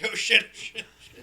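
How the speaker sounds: loud, high imitated panic; hammed-up frantic cursing; mock freaking out. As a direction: act out the shooter panicking. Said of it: "he's fucking freaking out".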